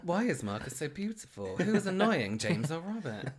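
high, hammed-up mocking brother; mocking impression. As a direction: mimic him fishing for praise. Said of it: "he's like".

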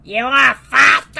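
copying the Aussie offer; mock Aussie echo. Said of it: "I don't know what that voice was".

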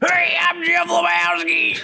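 comic high Lebowski; Jeff Lebowski two octaves up. Pretend. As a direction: squeak out the Dude an octave too high. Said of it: "Jeff Lebowski two octaves up".

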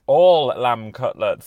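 put-on slow, nasal Ken accent on all lamb cutlets; imitating Ken's accent, slow and nasal. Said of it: "that's my Ken accent getting in the way there".

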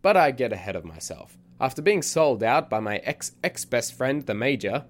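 eccentric storyteller character. Acted. Podcast host voices eccentric narrator.

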